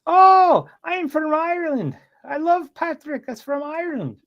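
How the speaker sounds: put-on gushing, very high old-lady falsetto; hammed-up imitation of a thrilled older lady; older Irish lady. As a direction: open with a loud, long "Oh", then stay high. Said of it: "she continues to tell me".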